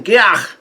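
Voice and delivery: imitated cry from being shocked; mock pain yell. Brook shocked by Zeus, mock pain yell. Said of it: "yells out in pain".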